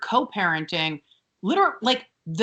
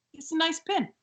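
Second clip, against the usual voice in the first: lightly voiced impression, halting and grudgingly approving; Robert De Niro; faster than usual. Rose warming to the pin, as a light De Niro impression. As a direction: mull it over with a hint of an impression. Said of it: "She turns into, apparently, Robert De Niro".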